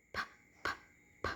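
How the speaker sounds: "P" as a bare puff of air; unvoiced P. Shown as a demonstration. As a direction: pop "P" with no voice, one by one. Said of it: "so the P sound".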